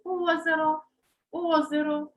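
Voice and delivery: озеро with the middle vowel reduced toward «и»; unclear unstressed vowel. Shown as a demonstration. Teacher shows what is heard, озеро with «и»-like middle vowel. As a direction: stress first «о» in озеро, blurring the «е». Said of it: "чуємо, наче".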